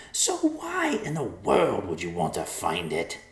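slow sly bird voice; mocking old vulture. Vulture character speaking.

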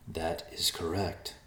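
soft, slow, unbothered; calm and slow. Acted. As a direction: answer quietly and calmly. Messenger calm reply.

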